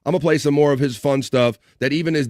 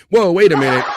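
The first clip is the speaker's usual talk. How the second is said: surprised; 5 semitones higher, 7 dB louder than usual. Real, not acted. Sudden on-screen surprise.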